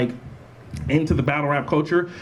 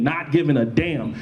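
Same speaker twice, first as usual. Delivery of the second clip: "damn" given deliberate emphasis; stress on DAMN. Real, not acted. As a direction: lean on the word "damn" as the key word. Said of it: "emphasis on damn".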